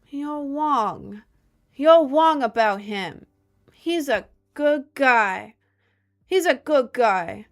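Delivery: high nasal-free mocking nerd voice; mock a smug internet nerd; Redditor voice. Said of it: "Is there a name for the voice you were just making?".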